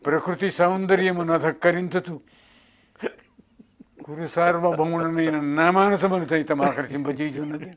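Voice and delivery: lightly voiced film hero Jaggayya, measured and grand; Jaggayya impression. Shown as a demonstration. Mimic reciting a Duryodhana line as Jaggayya. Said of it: "ఇది జగ్గయ్య అనుకోండి".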